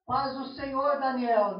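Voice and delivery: loud, demonstrative hello across a school; mock public greeting, projected; acted hearty greeting. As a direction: call out a church greeting. Acted church greeting called at school.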